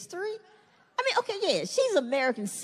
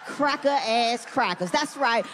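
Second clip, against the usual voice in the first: mock angry rant; 3 semitones lower than usual.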